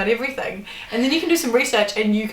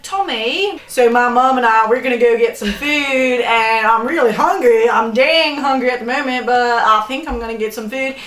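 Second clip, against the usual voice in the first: a touch of Southern American twang, louder; Nashville accent; 2 semitones higher, 5 dB louder than usual. Pretend. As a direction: play a chatty Love Island American with a Nashville accent. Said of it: "It's like Nashville".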